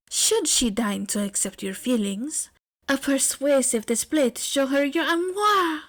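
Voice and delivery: a hint of a showy French lover; lightly voiced flamboyant romantic. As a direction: lecture on love with flair. Aoyama lectures grandly on love.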